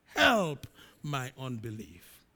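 a cry of Lord, then slow, pleading words; a father's slow, tearful plea for help. Acted. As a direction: beg as if close to tears. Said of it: "cried out and said with tears".

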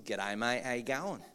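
a light, hammed-up Aussie accent. Greeting the church in a mock Aussie accent. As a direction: toss off a cheery Aussie greeting, laughing. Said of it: "but I am Aussie".

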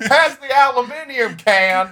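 high, loud, slow hammed-up yokel; mock Southern hick. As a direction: ham up a country bumpkin. Joining the mock hick bit.

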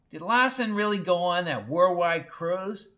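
high, screechy prying question; pry in a scratchy old voice; screechy nosy questioning; scratchy old woman. A narrator's reading. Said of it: "Her voice was a cross between a blackboard scratch".

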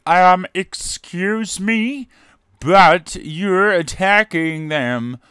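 slow, high, prissy objection; mock complainer. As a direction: whine it like an offended letter writer. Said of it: "people then lodge complaints going".

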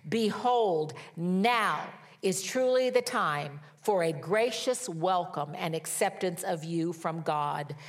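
slow, weighty proclamation of a verse; emphatic scripture reading. Acted. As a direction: declare the promise word by word, stretching the key words. Reads scripture emphatically to congregation.

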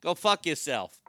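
a thick Boston accent on "Go fuck yourself", the r of "yourself" dropped. Shown as a demonstration. Showing how a Bostonian says love, in Boston accent. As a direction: spit out "Go fuck yourself" like a Southie local. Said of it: "If you use a Boston accent".

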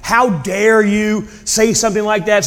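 mild mock indignation; retold angry yell. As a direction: act out offended anger without really yelling. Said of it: "they're angry at him and yelling".

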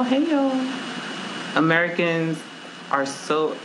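usual speaking voice

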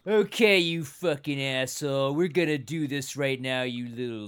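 lightly cartoonish tough talk, starting loud; hammed-up cartoon fight challenge; South Park-style voice. Spoofing the movie's fight as South Park, cartoonish challenge. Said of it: "like, a South Park moment".

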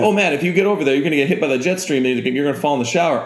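high, apologetic spider voice; talking spider. Acted. Spider to man in the shower, high friendly apology. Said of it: "imagine if spiders could talk to you".

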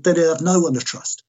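high-pitched, aggrieved disbelief; retold incredulous protest. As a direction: protest as the betrayed friend, pitch held high. Retold protest against the doctor's order.

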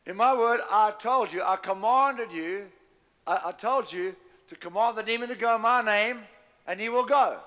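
Jesus insisting firmly; stern rebuke. Acted. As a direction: press the point hard, voice up high. Jesus rebukes Kenneth Hagin.

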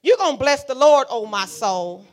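loud, firm order to the soul; commanding own soul. Shown as a demonstration. Preacher ordering her own soul, loudly commanding. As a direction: tell your soul what it will do. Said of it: "this is how I talk to my mind".

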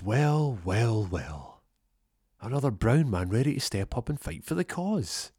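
lightly hammed gloating villain; mock villain. Villain sneering at the new recruit, hammed up.

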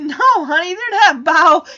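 laughing. Retold or imitated. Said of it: "Danny kinda laughs and he's like".

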